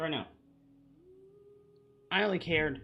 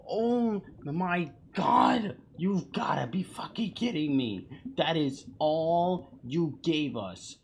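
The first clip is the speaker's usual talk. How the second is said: drawn-out, raised exasperation; exasperated disbelief; 4 semitones higher, slower than usual. Real, not acted. Viewer let down by a short teaser, exasperated. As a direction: stretch the words out in disbelief.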